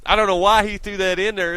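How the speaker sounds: fed up and loud; exasperated. Real, not acted. Exasperated outburst.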